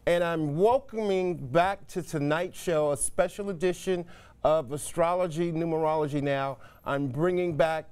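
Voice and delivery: upbeat broadcast host opening; TV host intro. Acted. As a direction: present it like a live TV show open. Host's TV show opening.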